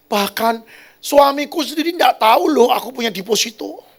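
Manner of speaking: high, loud voice of an agitated woman; imitated woman confiding. Pastor voices a woman confessing her secret deposit, high and agitated. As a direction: play her confession, pitched well up.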